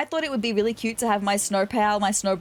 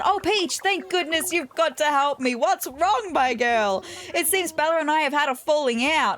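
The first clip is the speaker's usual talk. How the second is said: a lightly raised, fussy villager voice; Olivia's voice; 4 semitones higher than usual. Acted. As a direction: play the worried cat friend, a touch higher. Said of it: "She said".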